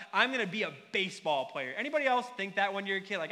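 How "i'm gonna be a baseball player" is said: lightly voiced eager little boy; a hint of a five-year-old's big dream; little kid dreaming. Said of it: "Like, I just thought".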